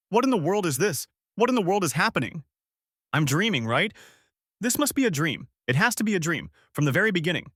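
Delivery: high, panicked self-talk; terrified. A narrator's reading. Kang Dante convincing himself it's a dream, terrified. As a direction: build from frantic questions to a high cry. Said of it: "he was so terrified".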